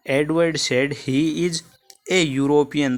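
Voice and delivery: slow, with a on a European made clear; corrected answer. Shown as a demonstration. Teacher corrects himself and reads the right answer slowly. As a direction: read out the fixed answer slowly, leaning on a before European. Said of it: "sorry".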